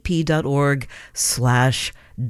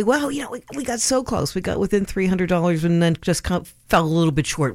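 disappointed; 2 semitones higher than usual. Pretend. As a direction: play it as a mock letdown. Imagined lament of falling short.

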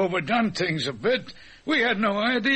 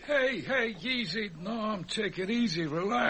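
soothing; 6 dB quieter than usual. Acted. Calming an upset colleague.

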